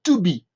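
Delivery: teacher carefully sounding out TO BE in English; pronunciation demo. Shown as a demonstration. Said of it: "la prononciation est très simple".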